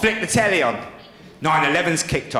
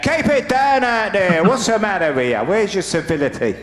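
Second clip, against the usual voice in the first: retold drunken shout; 2 semitones higher than usual. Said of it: "I shouted out".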